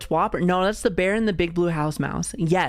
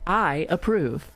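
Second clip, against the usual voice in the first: put-on old announcer voice; much slower than usual. Shown as a demonstration. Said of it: "the old, like, muffled voice".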